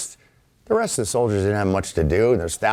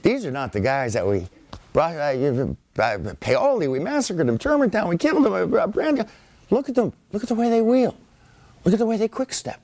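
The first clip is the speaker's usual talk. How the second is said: much higher, disbelieving exclamations; amazed British soldiers; 11 semitones higher than usual. Retold or imitated. British soldiers at Monmouth marveling at Americans, high amazement. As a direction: marvel like shaken redcoats. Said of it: "their Butch and Sundance moment".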